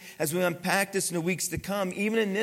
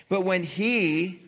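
he drawn out, slow and louder; emphasis on he; 4 dB louder, much slower than usual. Shown as a demonstration. Pastor stressing he to the congregation, slow and louder. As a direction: lean hard on the word he. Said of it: "notice these, this emphasis".

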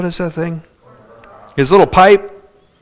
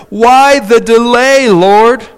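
imploring; 6 semitones higher, 5 dB louder, slower than usual. Acted. Voicing Martha and Mary's complaint.

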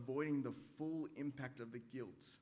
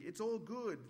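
higher, airy it's all good; breezy brush-off; 9 semitones higher, 3 dB louder than usual. Retold or imitated. A believer brushing off sin, breezy and higher. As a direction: toss it off lightly. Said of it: "brush off sin and think".

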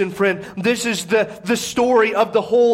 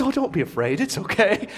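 gentle reassurance; 4 dB quieter than usual. Acted. Angel to women frightened at the tomb, gentle reassurance. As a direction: drop the voice and lightly calm them.

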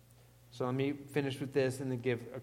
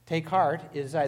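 quoting Jesus; 3 semitones higher, 6 dB louder than usual. Retold or imitated. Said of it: "he spoke to them and said".

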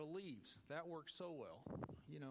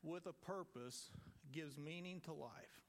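slow quote; slower than usual. Retold or imitated. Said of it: "he said".

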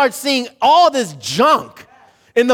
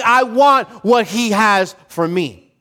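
slower, settled "for me"; content attitude; slower than usual. Retold or imitated. Preacher voicing a believer at peace, slow and content. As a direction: say it like someone at peace with God's portion. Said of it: "as opposed to saying".

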